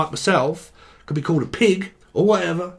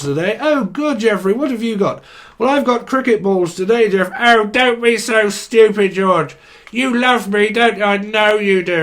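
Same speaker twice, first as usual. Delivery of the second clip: Rainbow puppet voices; 2 semitones higher than usual. Pretend. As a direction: play the squabbling puppets of a kids' show, mock-sweet. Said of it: "Only the British folk will get that one".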